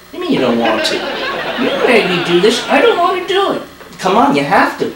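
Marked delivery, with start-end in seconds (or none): 2.7-3.6 high, whiny puppet voice; stubborn little dummy refusing; squeaky ventriloquist dummy. Acted. Ventriloquist dummy Sammy talks.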